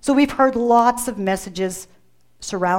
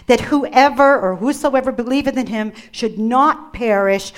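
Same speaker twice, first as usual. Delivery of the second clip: scripture reading. Acted. Reads scripture aloud slowly.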